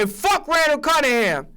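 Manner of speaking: a hammed-up shouted jab; mock outburst. The speaker acting out a rant against the team, mock shouting. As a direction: play it as a fake tantrum.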